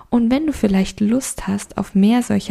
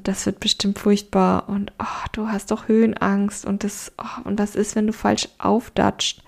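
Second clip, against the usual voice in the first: fearful inner voice. Retold or imitated. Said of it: "denk mir".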